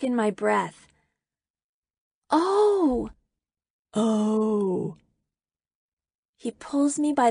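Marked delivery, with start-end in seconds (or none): 2.3-3.1 high, drawn-out oh; surprised realisation. A narrator's reading. Girl hearing that Peter waited for her, surprised. Sudden realisation after his confession. 3.9-5.0 sinking-in realisation. A narrator's reading. Girl taking in Peter's confession, subdued realisation.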